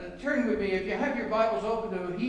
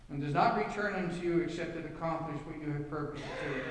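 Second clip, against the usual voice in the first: prayer; 3 semitones lower than usual. Real, not acted. Pastor praying over the congregation before the sermon, reverent.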